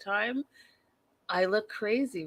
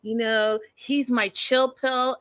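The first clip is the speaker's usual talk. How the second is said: put-on gushing girlfriend, slowed down; dreamy mock quote; 3 semitones higher than usual. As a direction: drawl it out lovesick. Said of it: "she's like".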